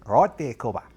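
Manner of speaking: hammed-up Australian greeting; put-on Australian accent. Gamer gives in and does the accent, mock Australian. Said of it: "Oh, I'll do the accent".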